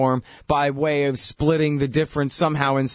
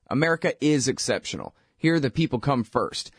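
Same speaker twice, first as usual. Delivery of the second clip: ad read; 2 semitones lower than usual. Acted. Host reading an ebook ad to listeners, measured ad voice. Reads a sponsor ad.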